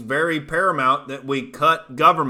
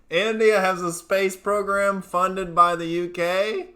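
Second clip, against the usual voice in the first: mock disbelief; 5 semitones higher, slower than usual. Mock disbelief at chat claim.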